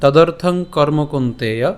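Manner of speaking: slow, measured Sanskrit verse recital; slow recitation. Shown as a demonstration. Teacher reciting the verse slowly to the class. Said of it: "আজকের শ্লোকটি হলো".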